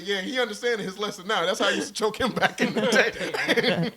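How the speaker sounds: a hint of a proud old granddad; lightly voiced grandpa. Retelling the granddad approving, lightly voiced old man. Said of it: "He said".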